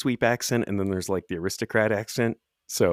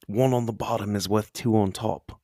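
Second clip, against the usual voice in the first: put-on Australian accent; 2 semitones higher than usual. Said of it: "I will never get sick of that accent on you".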